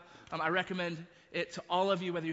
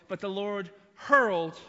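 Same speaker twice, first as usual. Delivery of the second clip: "hurled" punched loud and drawn out; slow line landing loudly on "hurled"; stress on hurled; 5 dB louder than usual. Shown as a demonstration. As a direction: hit the word "hurled" hard, stretching it. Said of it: "I like to emphasize the word hurled".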